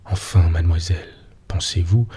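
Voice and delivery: plain reading voice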